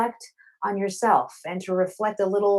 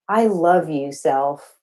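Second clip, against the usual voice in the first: affirmation; 4 dB louder, much slower than usual. Shown as a demonstration. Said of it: "I just want you to say".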